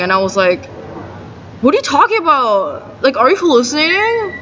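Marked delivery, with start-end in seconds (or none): 1.6-4.3 higher-pitched disbelieving question; are-you-serious disbelief; retold incredulous comeback. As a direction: act out an incredulous retort.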